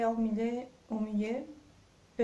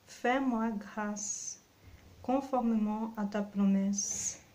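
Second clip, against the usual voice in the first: scripture reading. Acted. Preacher reading Psalm 119 to the congregation, measured and reverent. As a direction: read each verse with calm reverence. Reads psalm verses aloud.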